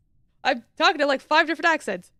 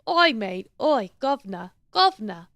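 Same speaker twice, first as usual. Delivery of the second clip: mock Cockney accent; 2 semitones lower than usual. Shown as a demonstration. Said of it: "I know it'd be as easy doing a British accent".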